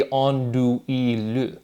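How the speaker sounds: "andouille" with the final le sounded out. Shown as a demonstration. Explaining own reading of French andouille, final le sounded. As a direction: say "andouille" syllable by syllable, ending on le. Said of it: "to me it would be".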